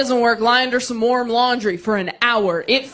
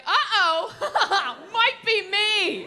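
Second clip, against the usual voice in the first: high, sheepish uh-oh that dissolves into a laugh; 10 semitones higher, 5 dB quieter, much slower than usual. Retold or imitated. Realizing after the breakups it's her, sheepish laughing uh-oh. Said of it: "you're like".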